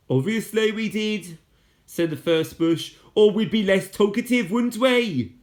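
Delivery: a touch of snotty sarcasm; sarcastic girl. A narrator's reading. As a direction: tease him for a silly remark. Con answers sarcastically.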